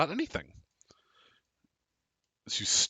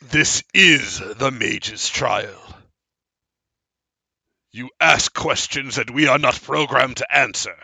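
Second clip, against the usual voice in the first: stern statue voice; 5 dB louder than usual. Acted. Statues answer in character.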